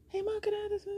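put-on =quiet high-pitched kid plea; whiny child. Boy asks mom after waiting, whiny. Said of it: "he was kind of whining".

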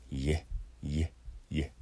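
"イエ" as a glide from イ into エ; three separate, short demonstrations of "イエ"; 発音の手本. Shown as a demonstration. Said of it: "エの段は". (「イエ」を一つずつ区切って手本)

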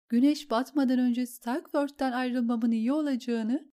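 a shaken noblewoman repeating threats; lightly distraught lady. Acted. Lady recounts Bron's threats to the queen, lightly tearful.

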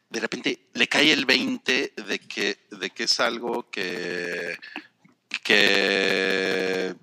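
choppy, robotic connection audio. Real, not acted. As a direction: voice breaking up like a bad call line. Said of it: "dicen que estoy sonando robótica". (voz robótica entrecortada)

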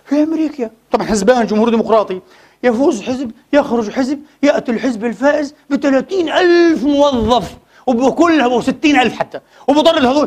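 a hint of a condescending reporter; mocking the journalist. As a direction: mildly mimic a smug journalist lecturing about America. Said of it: "قال لك".

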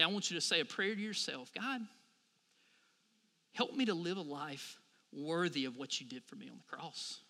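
soft, low prayer voice; whispered-soft personal prayer; hushed prayer. Shown as a demonstration. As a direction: pray it quietly to yourself. Guiding a silent prayer.

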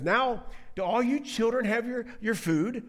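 lightly acted fussy mother with loud emphasis; mock bullying. Peninnah readying her children in front of Hannah, mock bullying. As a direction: needle a rival while fussing, mildly hammed-up. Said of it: "the kind of bullying".

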